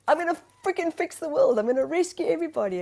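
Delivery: high, loud, fast bravado; mock grand savior. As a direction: puff it up like a would-be rescuer. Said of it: "self-mocking savior voice".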